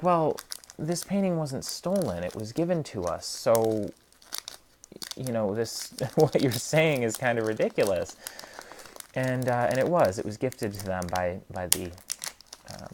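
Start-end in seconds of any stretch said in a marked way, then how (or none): 0.0-8.2 higher, louder mock voice of the court; mock haughty court. Court scoffing at the janitor's excuse, high mocking voice. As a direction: play the court, mocking and dismissive. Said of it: "the courts were like".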